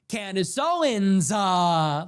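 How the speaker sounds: mild mock of a theatrical self-introduction; a hint of savoring her own name; imitating Candace Owens. Host parodies how Candace Owens always talks, lightly theatrical. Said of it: "that's how she always talks".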